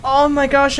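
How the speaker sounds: normal talking voice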